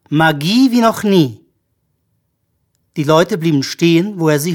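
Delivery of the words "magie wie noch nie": slow, loud showman's proclamation; called out. A narrator's reading. Magician promises his audience new magic, calling out slowly. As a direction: draw it out as a proud announcement. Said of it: "rief er".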